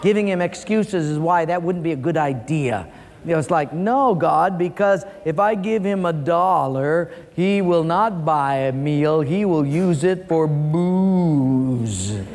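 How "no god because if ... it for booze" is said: mildly protesting, slowing heavily toward the end; arguing with God. Retold or imitated. Preacher retelling his excuses to God, mild arguing. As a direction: make an excuse, stretching out the final words. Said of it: "I started arguing with God".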